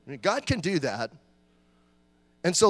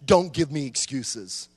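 stern dad; 5 semitones lower, slower than usual. Retold or imitated. Dad voiced in childhood story.

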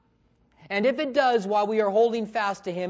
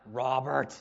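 God calling; 7 semitones lower, 5 dB quieter than usual. Acted. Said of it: "what will it sound like when he calls".

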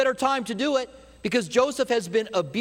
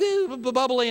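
bubbly mock; 4 semitones higher than usual. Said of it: "your personalities are like".

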